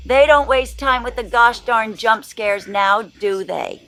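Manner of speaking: a hint of a wholesome sweet old lady; wholesome 1950s kid. Wholesome grandma persona.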